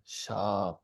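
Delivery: sha with air running out; airy sha. Shown as a demonstration. Teacher showing aspirated sha, airy. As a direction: let the breath run out on sha. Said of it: "like you're running out of air".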